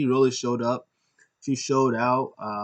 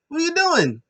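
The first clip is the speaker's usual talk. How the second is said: much higher, louder mock panic; squeaky outrage; 5 dB louder than usual. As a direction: squeal it in disbelief. Drake shocked at Shockmaster.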